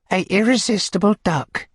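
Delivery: high coy matron voice; high and bashful; Missus Corney. Acted. Matron naming the beadle, high and coy.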